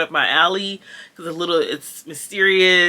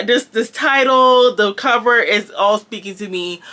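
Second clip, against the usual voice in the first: a sudden loud burst of delight, pitched up; excited outburst; 3 semitones higher, 4 dB louder than usual. Real, not acted. Booktuber gushing to viewers about a cover she loves, excited outburst. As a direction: squeal it like the cover just grabbed you.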